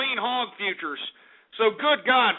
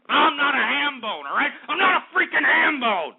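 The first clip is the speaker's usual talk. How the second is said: indignant denial; 5 semitones higher than usual. Real, not acted. Repeated angry denial.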